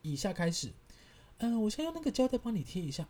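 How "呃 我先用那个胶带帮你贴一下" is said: lightly voiced nurse, a bit higher; mock the nurse's polite chirp; a hint of a sweet-talking nurse; imitating the nurse. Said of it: "我现在发出的声音跟讲的话都是那个护士讲的哦".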